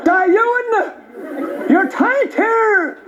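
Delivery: put-on high-pitched, agitated Traveller accent; Irish Traveller accent. Young Traveller challenges a comedian in the street, high Traveller accent. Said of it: "two travelling young fellas".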